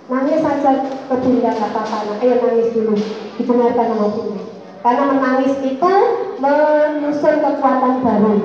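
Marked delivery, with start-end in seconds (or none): 0.1-4.4 soothing mother. Retold or imitated. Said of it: "saya gitu kan".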